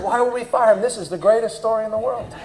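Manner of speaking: tickled by the disaster; laughing delight. Retold or imitated. Boss to the engineer, laughing at the great story.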